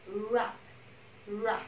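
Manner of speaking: "rub" starting straight on r, no s or k; cluster dropped. Shown as a demonstration. Teacher removing two consonants for class, bare "rub". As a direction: model "rub" plainly with a rounded r. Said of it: "chỉ cần bỏ đi".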